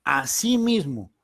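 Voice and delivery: Asimismo drawn out slowly with a firm falling close; stressed word. Shown as a demonstration. Preacher stressing the key word to listeners, Asimismo slow and weighty. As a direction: lean on Asimismo, slow and deliberate. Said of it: "Recalco esta palabra".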